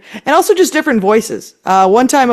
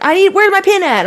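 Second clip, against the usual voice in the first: imitating husband; 10 semitones higher than usual. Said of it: "He's like".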